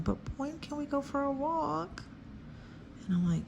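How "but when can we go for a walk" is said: high, soft pleading dog voice; dog's voice. Pretend. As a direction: voice the dog begging for a walk, higher and softer. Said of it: "my dog is, like, going".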